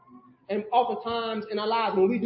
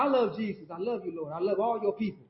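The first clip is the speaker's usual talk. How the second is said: mock pious teen; 3 semitones lower, 6 dB quieter than usual. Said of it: "This is me in high school".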